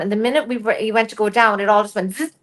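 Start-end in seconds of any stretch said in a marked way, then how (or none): 2.1-2.3 short imitated zip of a record stopping; quick buzzy cut-off sound effect; needle-off-record noise. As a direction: mimic a record cutting out. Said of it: "like you take a needle off the record".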